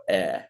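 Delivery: 'eh' drawn out as a letter sound; clearly demonstrated 'eh'; flatter EH vowel. Shown as a demonstration. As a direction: say 'eh' slowly, as in 'bed'. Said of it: "you pronounce it like that".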